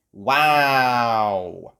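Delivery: loud, amazed group gasp; gasped wow. Acted. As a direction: breathe out a wondering wow. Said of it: "everyone gasped".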